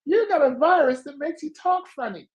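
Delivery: a gleeful mock diagnosis; playful diagnosis. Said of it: "I said".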